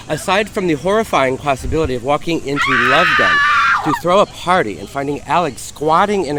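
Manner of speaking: dramatic reading. Acted. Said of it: "dramatic reading of Mark Domu's screed".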